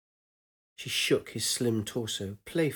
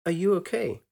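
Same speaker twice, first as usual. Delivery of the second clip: put-on young woman voice; 8 semitones higher than usual. Woman asks with concern.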